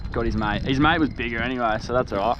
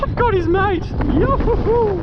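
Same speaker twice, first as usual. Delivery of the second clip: sing song yoo hoo; 5 dB louder than usual. Real, not acted. Excited catch cry.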